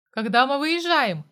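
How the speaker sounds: loud snapped bark; barked question. A narrator's reading. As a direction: bark it out angrily. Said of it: "рявкнул я". (громкий резкий окрик)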